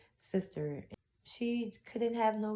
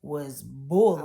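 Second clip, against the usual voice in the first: pained emphasis; 6 dB louder, slower than usual. Real, not acted. Recalling the hurtful words.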